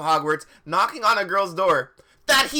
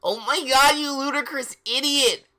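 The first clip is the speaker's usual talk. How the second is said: high, loud mock-furious outburst; hammed-up angry yell, pitched way up; angry shout; 9 semitones higher, 4 dB louder than usual. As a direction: yell it like an outraged character. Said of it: "They both shooted angrily".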